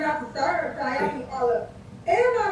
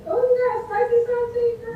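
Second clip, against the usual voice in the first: teasing delight; 10 semitones higher than usual. Real, not acted. Teasing guest about her bio.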